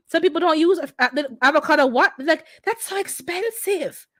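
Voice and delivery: mock shock. Mocking people who skip avocado.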